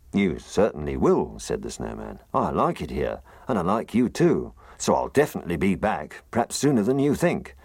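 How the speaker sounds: loud, rueful gruff snowman. Acted. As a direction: grumble about the scatty wind. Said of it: "He had a very gruff voice".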